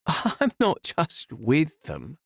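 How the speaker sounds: lightly voiced scheming villainess; villainous Morel. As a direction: savour the reveal.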